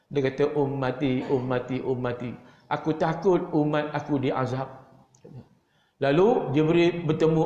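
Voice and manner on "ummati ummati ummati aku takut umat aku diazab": mournful lament. Acted. Prophet weeping for his people.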